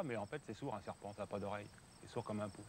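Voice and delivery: very soft hushed voice; speaking low. Real, not acted. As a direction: talk under your breath. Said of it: "je parle tout bas".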